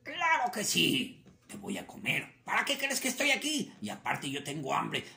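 a touch of a rough, loud hungry coyote; insist, lightly voiced predator; gruff coyote. Coyote refusing the rabbit, mild gruff insistence.

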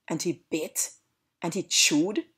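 usual speaking voice

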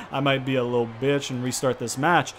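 amused self-mocking laugh. Real, not acted. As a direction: laugh through the line. Laughs at himself.

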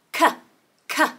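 brief, separate "K" sounds; letter-sound demo. Shown as a demonstration. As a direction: give "K" as a lone consonant sound. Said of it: "Cow starts with the letter C".

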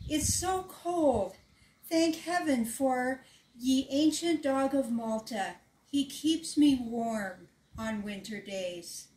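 put-on a castle girl shivering and grateful for her dog; young princess.

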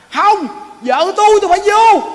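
husband begging to get to his dying wife; frantic husband insisting he must go in; desperate husband. Acted. Husband forcing into deathbed room.

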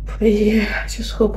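breathy whispered aside. Real, not acted. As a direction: drop to a whisper. Sighing aside.

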